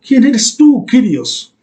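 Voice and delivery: a touch of Paul's fear, face down on the road; fearful plea. Retold or imitated. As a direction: ask it trembling and humbled. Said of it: "Temblando, con miedo, en tierra".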